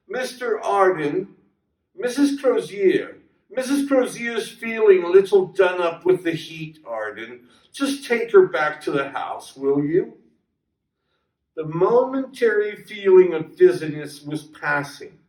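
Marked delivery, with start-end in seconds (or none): 0.1-10.2 higher, calling across to a man nearby; a mild call to a worker at a distance. Acted. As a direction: call him over, lightly raised. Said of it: "He called to a man".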